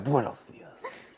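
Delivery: drawn-out mock Spanish greeting; a slow exaggerated Spanish accent; slow hammed-up Spanish accent. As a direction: stretch it out with a thick put-on Spanish accent. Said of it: "But when I talk like that".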